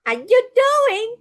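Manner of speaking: drawn-out, high-pitched flirty catchphrase; playful Friends-style pickup line. Acted. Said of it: "It's Shelby from Friends".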